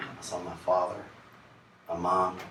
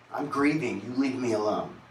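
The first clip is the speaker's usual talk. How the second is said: defensive snap; 2 semitones higher, 4 dB louder than usual. Retold or imitated. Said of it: "is what I would always say to her".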